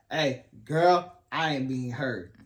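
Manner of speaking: mock sassy complaint to a partner; sassy confrontation. Husband acting out telling his wife he is unheard, mock sassy. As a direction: punch the opening, then let it fall, with mock attitude. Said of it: "Not in that voice".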